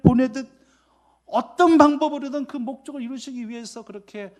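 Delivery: high, loud, impassioned sermon voice; fervent preaching. Acted. Pastor extolling Jesus's purpose, preaching high and loud. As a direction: lift the congregation with Jesus's resolve.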